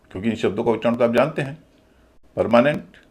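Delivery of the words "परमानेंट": परमानेंट with long मा and full नेंट; common pronunciation. Shown as a demonstration. Teacher quoting how people usually say it, common pronunciation. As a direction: say परमानेंट with a clear, full "nent" ending. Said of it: "यही लोग कहते हैं".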